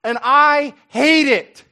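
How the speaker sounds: slow, rising to a loud "I hate it"; grim disgust building to anger; Paul voiced, stern and outraged; provoked Paul. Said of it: "He looks around and he goes".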